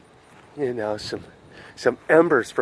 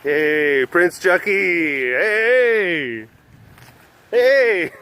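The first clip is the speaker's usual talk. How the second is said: bad Queen impression; 2 semitones higher, much slower than usual. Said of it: "my Queen of England accent".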